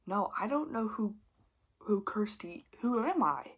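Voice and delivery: a hammed-up lost, bewildered voice; a hint of pretend amnesia, lightly voiced; mock confusion. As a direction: play dumb, like you've forgotten who you are. Faking amnesia to prank husband.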